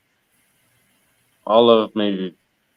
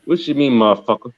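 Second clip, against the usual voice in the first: ghetto slang; faster than usual. Shown as a demonstration. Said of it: "ghetto slang".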